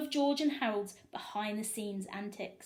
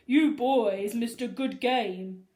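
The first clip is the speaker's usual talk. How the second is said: loud, slow fake pity; mock sympathetic principal; 10 dB louder, slower than usual. Principal toying with the boys, loud fake sympathy. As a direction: pretend to feel sorry for them. Krupp voiced.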